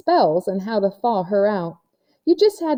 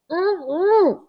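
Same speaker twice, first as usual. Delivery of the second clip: lightly voiced April; 10 semitones higher than usual. A narrator's reading. April checks mirror, voiced differently.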